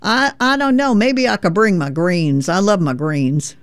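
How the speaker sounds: folksy Tennessee veteran teasing a Yankee; lightly voiced Tennessee accent; Tennessee drawl. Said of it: "here is Hobart saying".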